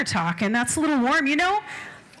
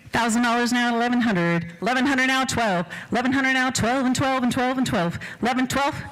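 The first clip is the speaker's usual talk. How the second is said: quick rolling auctioneer chant; auctioneer bid calling; faster than usual. Acted. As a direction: rattle off the bids to keep the room going.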